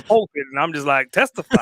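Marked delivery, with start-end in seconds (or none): 1.1-1.6 high-pitched mock congregation cry; church testifying. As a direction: playfully call out like a churchgoer cheering the preacher. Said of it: "I feel like I'm at church".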